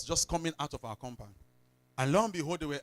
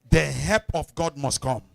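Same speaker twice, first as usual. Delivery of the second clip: louder declaration to a neighbor; loud call and response; 14 dB louder than usual. Shown as a demonstration. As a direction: proclaim it loudly for the congregation to repeat. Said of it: "Tap your, stop somebody, say".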